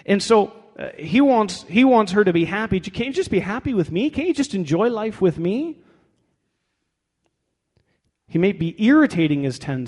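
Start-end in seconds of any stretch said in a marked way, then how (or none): 2.8-5.8 higher, coaxing husband's appeal; a touch of hammed-up entreaty; mild mock pleading. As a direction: plead lightly as a needy husband. Voices the husband wanting her happy.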